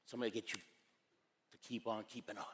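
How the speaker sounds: low, soft, with long pauses; hushed, earnest closing; solemn appeal. Real, not acted. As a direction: let the closing warning sink in quietly. Solemn close of motivational talk.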